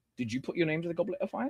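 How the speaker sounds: hushed, gentle, very calm and very quiet. Retelling telling off a small cat, a quiet, calm Dumbledore impression. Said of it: "I said that very calmly, just like Dumbledore. That's how I said it".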